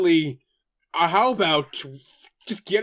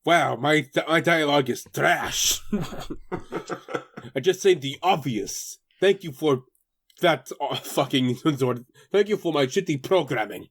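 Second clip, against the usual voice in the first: robot assistant voice; 5 semitones lower than usual. Acted. Voicing the robot Alpha.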